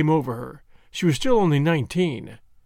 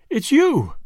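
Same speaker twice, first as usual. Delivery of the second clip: high startled cry of recognition; jolted, breathless relief; 9 semitones higher, 4 dB louder than usual. Acted. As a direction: blurt it out, caught off guard.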